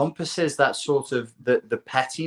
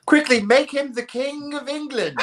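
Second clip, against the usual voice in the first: mock urgency; 12 semitones higher than usual. Acted escalation of the job interview.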